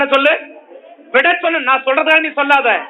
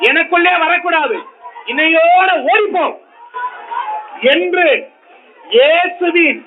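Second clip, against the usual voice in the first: raised, ringing rebuke with shouted peaks; preaching at full force; 2 semitones higher than usual. Acted. Preacher commanding the problem to leave the house, full force. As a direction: command it out, building with each line.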